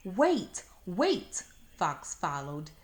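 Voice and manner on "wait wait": loud, higher calls of wait; pleading. Acted. Fox calling after Flossie as she skips away, loud pleading. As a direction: cry after her, begging her to stop.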